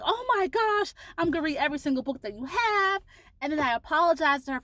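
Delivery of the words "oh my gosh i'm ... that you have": gushing fangirl. Retold or imitated. Fan promises the author to read all her books. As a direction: gush it out, nearly in tears. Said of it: "I'm like".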